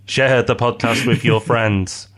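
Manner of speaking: slow, hypnotic subliminal-message voice; drawn-out voice like a message slipped into the subconscious. Pretend. Host jokingly voicing their own subliminal podcast ads, slow and hypnotic. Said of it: "I don't know why it'd be in that voice".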